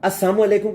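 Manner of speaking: salaam clipped to "as-saam", dropping the "la" in "السلام"; swallowed salaam. Shown as a demonstration. Anchor showing people's wrong greeting, "السلام" missing its middle syllable. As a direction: say "السلام علیکم" slurred as "assaam alekum". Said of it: "اس کا مطلب ہوتا ہے تمہیں موت آئے".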